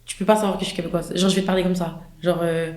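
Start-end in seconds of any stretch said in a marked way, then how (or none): 1.1-2.0 lightly shown French accent. Shown as a demonstration. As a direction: slip into a French-from-France accent. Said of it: "en accent français".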